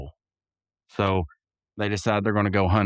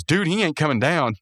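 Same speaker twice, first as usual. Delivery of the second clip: Rigby voice; 6 semitones higher than usual. Retold or imitated. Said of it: "he goes".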